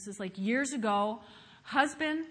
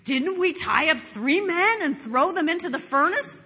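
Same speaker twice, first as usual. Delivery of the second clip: raised, loud astonished question; exclaiming; 4 semitones higher, 6 dB louder than usual. A narrator's reading. King to his advisors about the furnace, exclaiming. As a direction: read it as an amazed king's exclamation. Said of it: "exclaimed to his adversaries".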